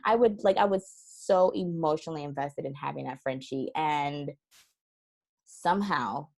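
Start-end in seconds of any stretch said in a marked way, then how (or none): none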